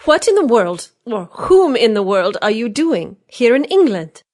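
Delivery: high, loud, slow playful question; merry questioning. A narrator's reading. Marguerite merrily questioning Chauvelin, high and loud. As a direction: tease him about being in England. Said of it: "she added merrily".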